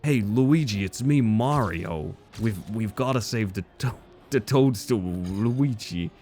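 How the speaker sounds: a hint of Italian plumber; playful half-hearted Mario; mild Mario to his brother; lightly voiced Mario. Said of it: "I just did a better Mario voice".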